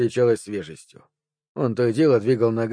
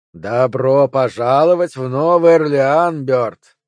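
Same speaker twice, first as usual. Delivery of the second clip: slow, loud wavering synth voice; drawn out like an electronic voice; synthesized voice; 6 dB louder, slower than usual. Acted. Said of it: "Синтезированный голос колебался".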